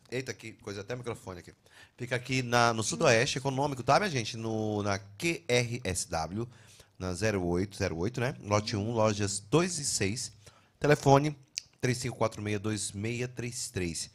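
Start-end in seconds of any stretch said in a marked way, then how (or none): 4.4-14.1 slow ad read. Acted. Reading sponsor address slowly.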